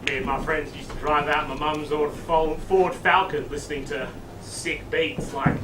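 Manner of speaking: low, soft account of youth; nostalgic reminiscing. Acted. Principal reminisces about his youth.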